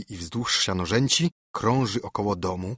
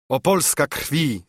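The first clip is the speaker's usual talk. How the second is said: moved exclamation; 5 semitones higher, 3 dB louder than usual. Acted. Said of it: "zawołał Bernardyn wzruszony".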